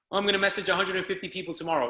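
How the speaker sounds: quick whiny-excuse parody of a procrastinator; mocking excuse-maker. Coach mocks a member putting it off till tomorrow, fast and mocking.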